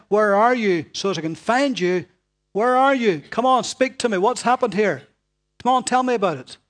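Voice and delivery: God coaxing. Acted. Preacher voicing God pleading.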